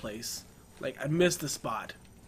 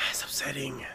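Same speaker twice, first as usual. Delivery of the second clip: whisper; 2 semitones lower, 6 dB quieter than usual. Real, not acted. Whispered frustration while playing.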